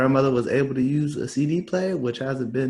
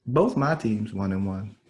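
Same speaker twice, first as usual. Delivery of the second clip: "Both my teams one and one" slow and lower; slower restatement; 3 semitones lower, slower than usual. Real, not acted. Fan repeating his teams' record to co-host, "Both my teams one and one" slowed down.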